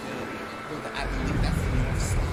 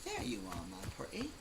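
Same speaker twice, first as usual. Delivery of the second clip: mock villain coo; 3 semitones higher, 11 dB quieter than usual. Mock-villain coo to found game item.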